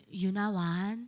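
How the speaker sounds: mild Pyongan dialect, spoken tenderly. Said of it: "평안도 사투리를 하시더라고요. 이렇게 유나완 되게 부드러우셨어요".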